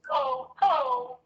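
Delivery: high, slow, wailing mock shout. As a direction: drag it out in a whiny crying yell to mock the other one. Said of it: "The other one goes ... mocking".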